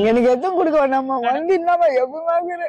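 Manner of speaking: real weeping while she talks; crying. Real, not acted. Old woman telling the visitor her hardship, crying. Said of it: "அழுகாதீங்க".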